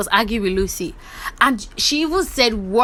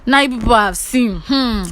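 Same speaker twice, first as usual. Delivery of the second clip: louder, animated imitation of an objection; mock protest; 4 semitones higher, 4 dB louder than usual. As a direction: protest as if refusing to be dragged in. Acted warning not to drag Lucy in.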